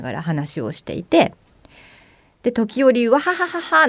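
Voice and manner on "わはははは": a mock hearty laugh pitched higher; imitating loud laughter. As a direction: act out the couple's carefree guffaw. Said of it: "なんて笑う". (若者の笑い声を軽くまねて)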